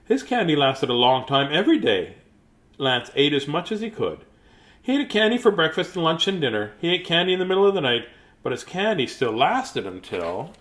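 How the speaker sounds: animated picture-book reading, lively rises and falls; story narration. A narrator's reading. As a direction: read it to children with lilting emphasis.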